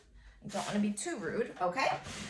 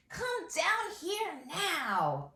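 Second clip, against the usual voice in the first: slow dictation; 9 semitones higher, 3 dB louder, much slower than usual. Shown as a demonstration. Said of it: "I'm saying it with feeling".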